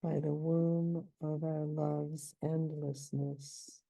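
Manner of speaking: slow, each stress marked, "womb" strongest; deliberate metrical reading; scanning stresses. Shown as a demonstration. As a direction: read "By the womb of our love's endlessness" slowly, hitting womb. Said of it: "this is also sort of a cretic".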